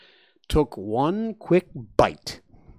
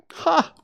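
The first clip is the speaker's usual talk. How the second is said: high sudden laughing ha; one bright laugh out loud; burst of laughter; 5 dB louder than usual. Acted. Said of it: "he laughed out loud".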